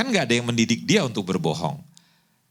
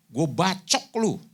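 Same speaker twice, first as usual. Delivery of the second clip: slow, higher-pitched menace; mock threat; 4 semitones higher, much slower than usual. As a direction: draw the threat out word by word. Acting out driver's threat at motorist.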